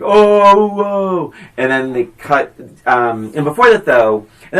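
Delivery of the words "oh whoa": high, drawn-out crowd "ooh"; onlookers' reaction. Retold or imitated. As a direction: imitate a scandalized party crowd, swooping high. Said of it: "And everyone's like".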